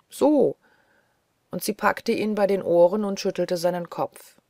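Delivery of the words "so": a sudden, louder, higher jolt; playful shake. Acted. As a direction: shake him awake with the word. Sie schüttelt ihn bei den Ohren. (plötzlich lauter, höher, neckend)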